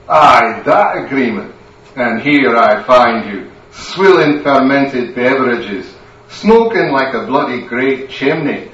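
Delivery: firm Aye, leaning hard on that agreement; stern Scottish wife scolding. Acted. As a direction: pin him down and tick him off.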